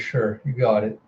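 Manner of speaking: soft, gentle agreement; low-key, understanding reply; sympathetic. Retold or imitated. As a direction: give in softly, with sympathy. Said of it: "looking at her sympathetically".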